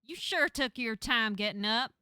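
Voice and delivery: loud, brash cousin voice; big, exasperated acted telling-off; scolding cousin. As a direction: holler a rough welcome at a cousin.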